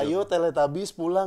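slow, lightly voiced coaxing sun. Co-host imitating the Teletubbies sun calling them home, lightly acted coaxing. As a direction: gently mimic someone luring children home. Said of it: "bisa ngebujuk gitu".

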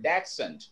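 dachshund said as DAK-sunt; correct pronunciation. Shown as a demonstration. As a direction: say dachshund with k-s, not sh. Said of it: "That's how it should be pronounced".

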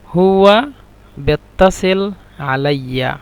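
হুয়া punched, then বেত্তাসিল and আলাইয়া separated; slow drilled phrasing. Shown as a demonstration. Teacher breaking the Egyptian phrase into pieces for learners. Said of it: "মিশরের আঞ্চলিক ভাষা হলো".

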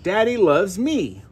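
slow, tender, modeling the words; mother reading to her toddler, slow and tender. Shown as a demonstration. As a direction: read it slowly and lovingly to the child. Parent reading picture book to toddler.

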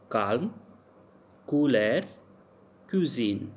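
"calm, cool air, cuisine" each starting on k; hard c as k. Shown as a demonstration. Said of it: "C pronounced like k".

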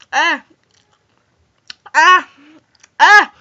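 loud gasping through a burning mouth; mouth on fire. Real, not acted. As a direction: pant and groan from the spice. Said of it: "Oh, that's spicy".

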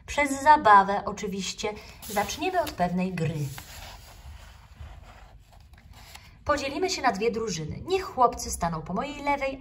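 rally the little ones with eager cheer; cheerful teacher. Acted.

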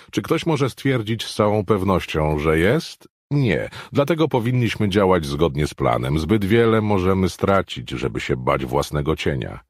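a confident official insisting, only lightly characterized; voiced Brockman. Brockman dismissing the doubts of the others, lightly voiced insistence. Brockman argues his point.

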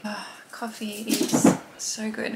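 slow, blissful sigh over coffee; drawn-out pleasure; savoring. Real, not acted. Savouring first coffee.

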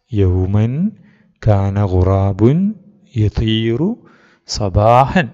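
slow read-aloud at normal volume; teacher reading again. Shown as a demonstration. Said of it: "sir വായിക്കാം".

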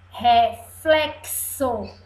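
slow, joined-up "Reflexo"; slow reading aloud. Shown as a demonstration. Teacher reads little words to class, slow "Reflexo". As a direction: read "Reflexo" out carefully and slowly. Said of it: "Vamos ler as palavrinhas?".

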